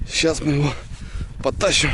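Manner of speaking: strained while dragging; effort grunt. Real, not acted. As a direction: talk through the effort. Dragging log.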